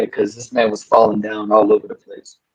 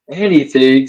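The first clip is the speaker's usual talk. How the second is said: ordinary delivery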